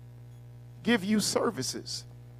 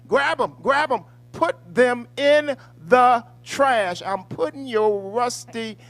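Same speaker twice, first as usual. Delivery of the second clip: gleeful rage; 6 semitones higher, 12 dB louder than usual. Acted. Host throwing non-voters in the trash: loud gleeful yelling. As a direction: shout it out with wild glee. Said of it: "I am gleeful about it".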